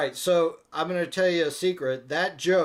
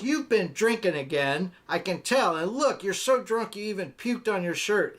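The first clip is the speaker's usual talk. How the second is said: higher-pitched, lightly acted nagging; mock accusing wife voice; scolding wife; 5 semitones higher than usual. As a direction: scold like a fed-up wife in a joke.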